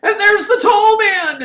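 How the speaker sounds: high, loud and slow, big build; excited narrator reveal; dramatic reveal. Real, not acted. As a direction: land it like a jump scare.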